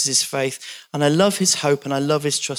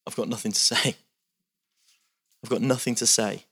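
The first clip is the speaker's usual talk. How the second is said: defeated Job; 6 semitones lower, 5 dB quieter than usual. Retold or imitated. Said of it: "Job's like".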